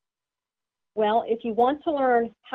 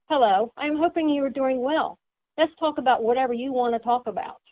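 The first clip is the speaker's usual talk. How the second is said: gentle, accommodating; 3 semitones higher than usual. Shown as a demonstration. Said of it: "they want to please you".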